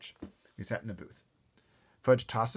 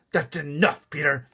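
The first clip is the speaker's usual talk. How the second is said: firm warning; 6 semitones higher, 9 dB louder than usual. Acted. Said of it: "my mother said".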